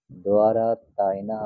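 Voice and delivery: দোয়ারা with a w glide after d; Pali pronunciation. Shown as a demonstration. Teacher correcting how students read দোয়ারা তায়না. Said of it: "যে দ্বারো তেন আছে".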